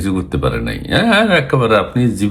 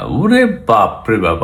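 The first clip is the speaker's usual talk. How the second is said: slow, drawn-out oh my goodness; mock amazement; much slower than usual. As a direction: stretch it out in mock awe. Mock awe at the politician. (ধীরে টেনে টেনে বলা বিদ্রূপাত্মক বিস্ময়)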